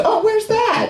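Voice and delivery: very high-pitched imitation of a customer; mock curious customer. Customer asking a follow-up question, mock curiosity. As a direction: pipe it up high, all eager interest.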